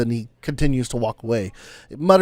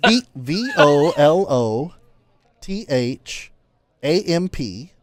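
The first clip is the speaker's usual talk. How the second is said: slow spelling; slower than usual. Shown as a demonstration. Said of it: "spell it, smart guy".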